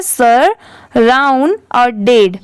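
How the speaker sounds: सर, राउंड, डेड as three separate slow chunks; pronunciation in parts. Shown as a demonstration. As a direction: sound out सर, then राउंड, then डेड. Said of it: "इसकी pronunciation कैसे हो रही है". (सर, राउंड, डेड अलग-अलग करके)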